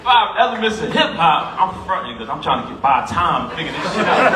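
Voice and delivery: fond laughter recalling his brother's quiz; laughing. Real, not acted. Laughing at the memory.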